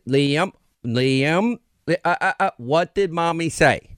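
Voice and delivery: lightly mimicked scolding mom, drawn out; imitating mom's cadence. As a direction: mimic a mother cautioning her toddler. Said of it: "Exact cadence, by the way".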